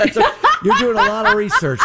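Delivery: chuckling through the words; laughing. Real, not acted. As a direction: speak while laughing. Laughs at the mix-up.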